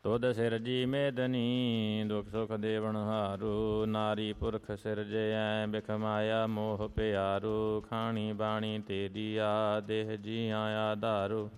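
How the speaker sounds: steady, measured chant of sacred verse; devotional hymn recitation. Real, not acted. Devotee recites Gurbani verses to the congregation, in a measured chant. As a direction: recite each line like a prayer, evenly paced.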